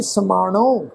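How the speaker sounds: ਸਮਾਣੋ with the retroflex nasal ਣ, sounded with a nasal ending. Shown as a demonstration. Teacher showing the congregation the retroflex ਣ in ਸਮਾਣੋ. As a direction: say ਸਮਾਣੋ with a clear ਣ, not ਨ. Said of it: "ਪਨੋੜੇ ਵਾਂਗੂ pronounce ਹੋਏਗੀ".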